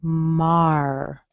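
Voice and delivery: "Mar." cut short to show the ah plus R; just the first part, "Mar."; teacher isolating "Mar."; isolated sound. Shown as a demonstration. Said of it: "does have an ah sound".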